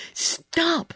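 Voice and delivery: high-pitched sudden command; shout. A narrator's reading. Girl breaks in on screaming boy, high shout. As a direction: cut through the hysterics sharply. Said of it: "she shouted".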